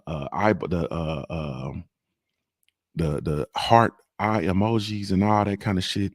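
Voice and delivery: talking through clenched teeth; through gritted teeth. Acted. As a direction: keep the jaw shut, talk through teeth. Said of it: "talk through my teeth".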